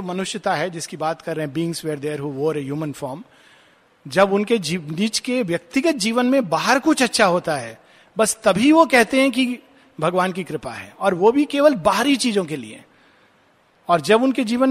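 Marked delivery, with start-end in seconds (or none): none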